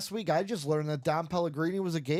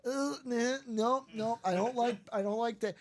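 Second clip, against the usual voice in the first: put-on higher Boston accent for the husband; Boston husband, pitched up; 6 semitones higher than usual. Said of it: "they're talking baby names".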